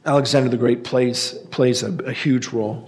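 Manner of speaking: hoarse, strained voice going; losing voice. Real, not acted. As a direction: voice giving out, hoarse. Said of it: "Sorry, I'm losing my voice".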